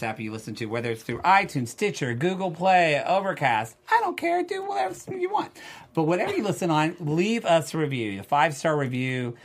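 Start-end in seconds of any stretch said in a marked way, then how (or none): 3.9-5.5 high, airy shrug of a voice; squeaky don't-care voice; mock careless squeal. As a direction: toss it off in a squeaky dismissive voice. Mock indifference, high pitch.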